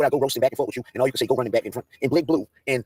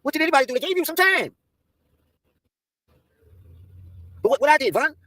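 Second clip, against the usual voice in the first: higher, whiny plea of innocence; mock innocent whine; 10 semitones higher than usual. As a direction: play the wrongly accused. Pleading with Von on stream.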